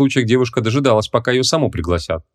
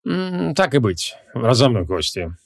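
slow, condescending consent; unhurried, lordly agreement; gracious; 2 semitones higher, slower than usual. Acted. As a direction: give in as if granting a favour. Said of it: "милостиво согласился Кривол".

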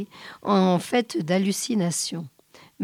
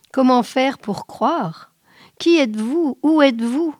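higher, pleading questions; desperate questioning; 5 semitones higher than usual. Acted. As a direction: press urgently for answers, pleading. Man desperately questions the vision.

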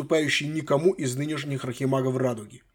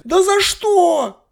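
much higher, loud squeal; indignant shriek; 9 dB louder, much slower than usual. Acted. Granddaughter outraged at her grandfather's punishment, loud shriek.

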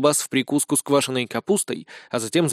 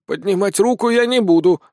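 cold; 6 semitones higher, 4 dB louder than usual. A narrator's reading. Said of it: "холодно произнесла Каллистовна".

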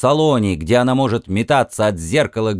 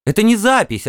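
woman's voice; 9 semitones higher, faster than usual. A narrator's reading. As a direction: answer as an eager woman. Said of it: "ответил женский голос".

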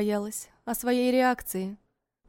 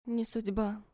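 softer, echoing his words; echoing softly; 7 dB quieter, slower than usual. A narrator's reading. Vera echoes Ivan's words, soft echo. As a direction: repeat it like a faint echo. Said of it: "как эхо повторила я".

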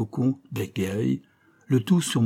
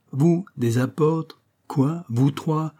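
slow scorn; 4 semitones higher, much slower than usual. Acted. Scornful questions.

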